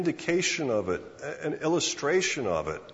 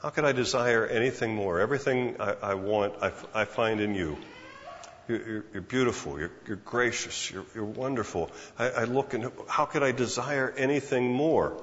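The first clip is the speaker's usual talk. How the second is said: tender adoration; 3 semitones lower than usual. Retold or imitated. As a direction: murmur it like a love song to God. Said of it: "looking at God and saying".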